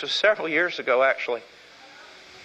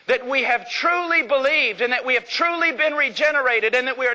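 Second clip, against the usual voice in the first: impassioned preaching; 5 semitones higher than usual. Real, not acted.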